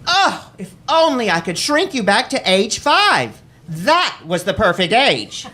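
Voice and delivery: high, sugary imitation of a doting mother. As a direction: coo it like a mother who wants her baby back. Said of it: "she wanted to keep me as her precious Jamie doll".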